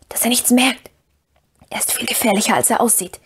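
hushed, secretive caution; whispered warning. A narrator's reading. Frodo cautions Sam about the creature, hushed whisper. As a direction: keep it under your breath, urgently. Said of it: "flüsterte Frodo".

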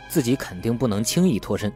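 plain reading voice

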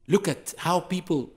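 ordinary talk, nothing marked

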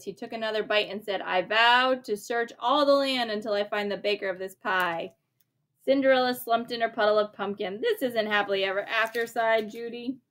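lively bedtime story reading; reading to a child. A narrator's reading. A parent reads the story aloud to a child, lively. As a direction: read it like a picture book at bedtime.

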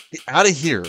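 high, loud yelp at the enemy; excited yelling. Real, not acted. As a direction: shriek it out in a panic. Gamer yelling at chasing enemy.

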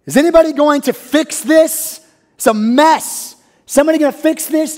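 exasperated, pleading congregant; frustrated outcry. Retold or imitated. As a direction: voice a fed-up listener. Voicing a frustrated listener.

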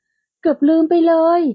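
sudden exclamation. A narrator's reading. Woman suddenly remembers a prank call, exclaiming. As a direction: blurt it out as it hits you. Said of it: "ธัญญาก็อุทานขึ้นมาว่า".

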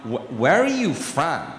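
slow, low American drawl; puzzled American accent. Acted. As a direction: imitate a curious American, dragging it out. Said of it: "speak to them in their own accent".

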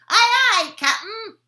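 high, loud chirpy reply; little toadlets. Acted. Toadlets answer captain.

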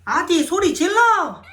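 rally the cat like a concert crowd; cheering call-out. Real, not acted. Urging the cat to cheer, loud and drawn out.

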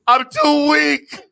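slow feeble Emperor voice, laughing through it; hammed-up feeble Palpatine, half laughing; weak Palpatine. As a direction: drag out each word like a dying Sith lord. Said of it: "I'm over here like Palpatine".

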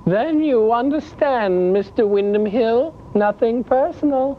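calm menace, pointing the gun; Holly with a gun. Acted. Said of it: "and says".

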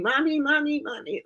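put-on high-pitched little kid calling for mom; urgent, high childlike calling, acted out; retold frantic child. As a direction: imitate a hysterical small child running in. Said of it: "I was just in tears".

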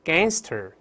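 gangster with an open "ae" and a back ng; gangster: spread the lips for the vowel, then raise the tongue root; gangster read aloud. Shown as a demonstration. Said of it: "再来一遍". (大声领读gangster)

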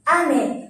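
"Ame" falling from high A to low me; high-to-low pitch accent. Shown as a demonstration. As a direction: start "Ame" high, drop on me. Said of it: "Mình sẽ đọc từ trên xuống".

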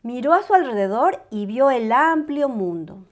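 usual speaking voice

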